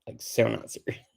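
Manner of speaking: put-on drawn-out Valley Girl with rising questions; goofy, slow Valley Girl incredulity; Valley Girl accent. Shown as a demonstration. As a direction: stretch it out like a mock Valley Girl. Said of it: "It's my kind of Valley Girl".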